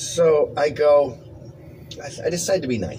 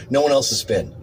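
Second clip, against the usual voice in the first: usual speaking voice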